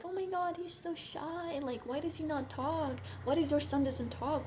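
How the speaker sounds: high, mock-shocked gossip voice; nosy gossiping people. Mocking the relatives who gossip about her shy brother, high and shocked. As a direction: mimic busybodies clucking over a shy boy. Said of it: "people are gonna be like".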